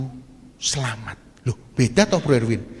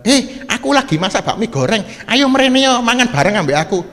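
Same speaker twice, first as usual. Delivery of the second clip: louder, higher hearty invitation; half-hammed shout across the street; mock friendly call; 6 semitones higher, 7 dB louder than usual. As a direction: call out like a cheerful neighbour. Mock call from repairman neighbour.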